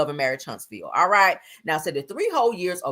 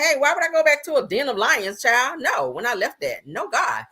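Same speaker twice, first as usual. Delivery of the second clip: high retold quote; 7 semitones higher than usual. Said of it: "So she said".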